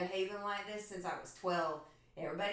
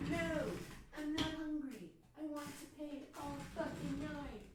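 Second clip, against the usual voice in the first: stubborn whiny refusal; 6 semitones higher than usual. Retold or imitated. Herself refusing dinner, acted.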